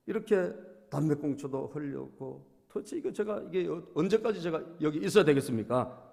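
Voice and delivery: a retold plea to God, rising to a loud outburst; pleading prayer. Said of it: "하소연하면서 기도를 했답니다".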